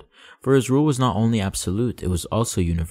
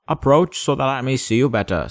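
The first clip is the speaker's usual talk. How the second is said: proud king; 4 semitones higher, 3 dB louder than usual. Acted. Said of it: "felt consumingly proud".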